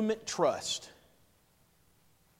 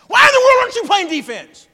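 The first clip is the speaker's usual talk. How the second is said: much higher and louder, yelling at the team on TV; frustrated yell; 16 dB louder than usual. Retold or imitated. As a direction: shout at the players like a fed-up fan. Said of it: "frustrated at West Virginia basketball".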